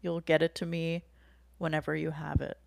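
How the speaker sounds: lightly imitated calm, reassuring therapist. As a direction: gently reassure her, unhurried and easy. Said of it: "in a very calm voice".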